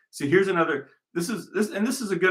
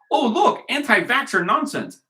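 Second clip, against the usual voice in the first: mocking critic; 10 semitones higher, 5 dB louder than usual.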